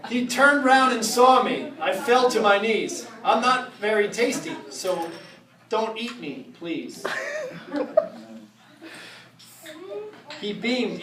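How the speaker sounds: rhythmic rhyming read-aloud, drawn out; storybook reading. Acted. Reading a Halloween rhyme aloud to the audience, spooky storytelling. Reads Halloween book to crowd.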